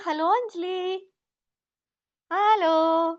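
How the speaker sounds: slow, gentle greeting to your own reflection; soft hello to self. Shown as a demonstration. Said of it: "अपना, अपना नाम लेंगे". (आईने में खुद को धीरे और प्यार से हेलो)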